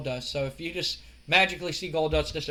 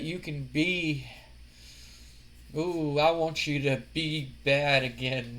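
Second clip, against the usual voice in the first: Goldust voice. Retold or imitated. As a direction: draw it out like a creepy seducer. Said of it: "And he goes".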